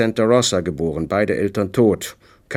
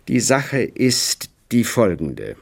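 deliberate; slower than usual. Acted. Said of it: "sagte er bedachtsam".

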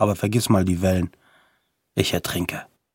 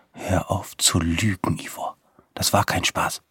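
whisper; 4 semitones lower, 5 dB quieter than usual. A narrator's reading. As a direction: whisper it urgently to your friend. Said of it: "er flüstert". (Marco flüstert Ivor eindringlich zu)

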